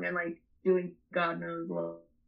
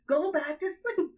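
higher, half-asleep order; sleepy command; 9 semitones higher than usual. Retold or imitated. Telling Lindsay to go back to sleep, higher and groggy. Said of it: "I was like".

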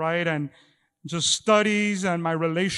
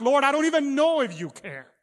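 higher, louder anguished plea; doubting prayer; 7 semitones higher, 4 dB louder than usual. Retold or imitated. Preacher voicing a believer who doubts God cares, anguished. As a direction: cry it up to heaven in hurt.

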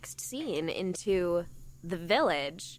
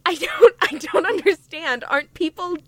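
normal talking voice

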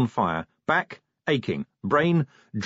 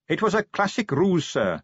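Carrot soothing, a touch higher; reassuring; 8 semitones higher than usual. A narrator's reading. Carrot reassuring his drunk boss, gentle and kind. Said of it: "said Carrot reassuringly".

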